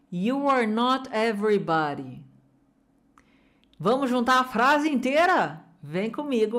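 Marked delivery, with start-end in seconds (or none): 0.1-2.2 smooth phrase at even pace; joined phrase. Shown as a demonstration. Teacher joining the phrase for students. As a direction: say it whole, calm and clear. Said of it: "Vamos juntar essa parte toda?".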